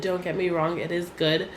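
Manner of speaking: normal talking voice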